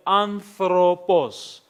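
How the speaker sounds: ANTHROPOS drawn out slowly and clearly; slow, careful word. Shown as a demonstration. Greek teacher showing a sample word to count, slow and careful. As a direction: say "anthropos" slowly, sounding out each syllable. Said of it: "how many sounds are there".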